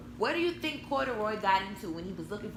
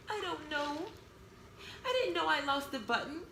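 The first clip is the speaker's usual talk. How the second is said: bear to himself; 5 semitones higher than usual. Acted. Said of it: "he said to himself".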